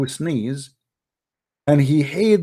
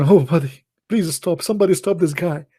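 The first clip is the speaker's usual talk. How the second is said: mock pleading god; 4 semitones higher than usual. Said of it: "Allah saying".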